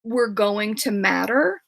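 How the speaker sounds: slow, tearful, voice catching; crying through words. Real, not acted. Author finishing her point while crying, tearful. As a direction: push the words out through tears. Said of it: "oh gosh, I'm crying".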